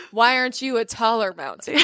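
lightly voiced picky critic; a touch of mock disappointment; mock complaint to a mountain. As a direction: grumble at the mountain, half-joking. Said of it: "Or like".

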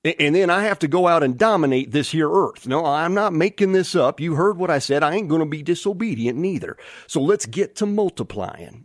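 lightly put-on Southern drawl; a hint of folksy Southern husband talking to his honey. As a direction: play Adam with a mild Southern twang. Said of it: "you can almost add a southern drawl".

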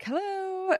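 a lilting hello into an empty room; high sing-song hello. Retold or imitated. Walking into a dark closed club, calling out a high hello. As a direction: call out a hello, way up high and tentative.

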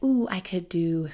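hoarse, fading voice cracking into air; words half lost as the voice fails; voice giving out. Real, not acted. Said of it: "I'm losing my voice".

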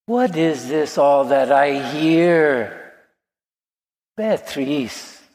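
slow, drawn-out soothing question; calm mother, lightly imitated; quiet motherly voice. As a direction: gently coo to a hurt child. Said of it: "said with this quiet voice".

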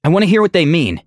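hesitant stammer; stuttering. A narrator's reading. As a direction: stumble over the first word before getting it out. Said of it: "she stuttered".

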